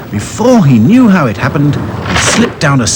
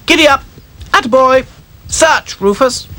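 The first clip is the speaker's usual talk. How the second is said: excited cheering. Acted. Dolls riding the dog, excited cheering. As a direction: urge him on.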